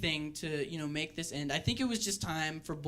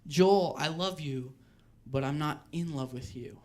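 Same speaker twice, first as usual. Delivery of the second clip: softly breaking up; 4 semitones lower than usual. Retold or imitated. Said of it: "she said".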